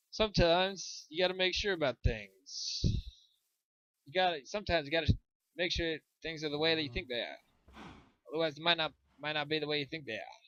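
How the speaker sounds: put-on light old-time radio announcer; hint of a vintage newsreel voice; 1930s announcer voice. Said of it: "The nineteen thirties announcer voice is hilarious".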